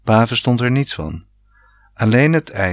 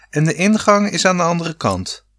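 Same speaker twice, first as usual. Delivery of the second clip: teasing shout; 7 semitones higher than usual. A narrator's reading. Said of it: "schreeuwde Rob".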